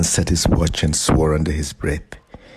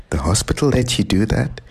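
scolding, higher question; voice rising sharply; 6 semitones higher than usual. A narrator's reading. Grandmother scolds her grandson like a boy, higher and sharp. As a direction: rise up sharply in disbelief. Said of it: "His grandmother's voice rose sharply".

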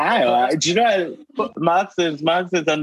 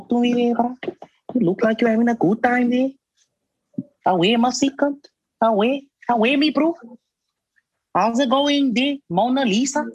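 put-on South African accent; 6 semitones higher than usual. Greeting friends in a higher South African accent. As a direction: sing it up like a Cape Town bro. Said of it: "so, South African?".

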